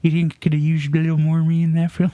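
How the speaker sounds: through gritted teeth; Woody Harrelson impression. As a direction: talk through your teeth, fast. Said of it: "I try to talk through my teeth a little when I'm doing a Woody".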